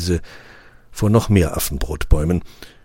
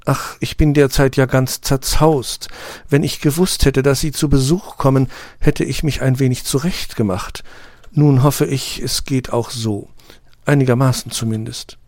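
higher, flustered little flower voice; embarrassed rose; 7 semitones higher than usual. A narrator's reading. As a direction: fuss shyly about her looks. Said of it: "Verlegen hüstelnd senkt sie zwei Blütenblätter". (Rose ist verlegen über ihr zerzaustes Aussehen, höhere Stimme)

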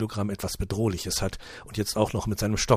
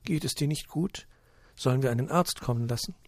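worried; 6 semitones higher than usual. Acted. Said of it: "legt besorgt ihre Hand".

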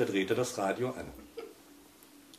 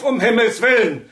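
higher, louder desperate bellow; frazzled bellow; 12 semitones higher, 14 dB louder than usual. A narrator's reading. Husband yells at the radio, beside himself. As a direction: yell it straight into the box. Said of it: "brüllte er völlig entnervt".

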